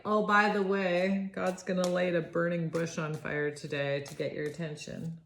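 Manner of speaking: lightly voiced God speaking down; a hint of a divine announcement; God's voice. Reader voicing God speaking to Moses, lightly. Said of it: "It's like God coming down to Moses".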